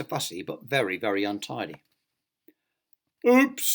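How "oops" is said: high, louder cartoon oops; playful oops. A narrator's reading. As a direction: let out a comic little yelp of oops. Clumsy character's mishap, acted.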